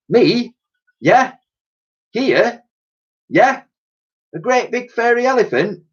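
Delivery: high, rising disbelieving voice; can't believe what he's asked; incredulous questions. A narrator's reading. Old soldier incredulous questions.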